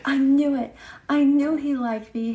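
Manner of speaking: high, loud, giddy schoolgirl squeal; mock giddy girl voice; gushing schoolgirl. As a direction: gush like a girl who just heard the boy likes her. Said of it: "the girl was like".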